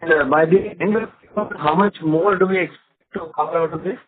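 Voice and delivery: muffled, like a bad phone line. Real, not acted. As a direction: talk through something covering the mic. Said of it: "you're sounding muffled".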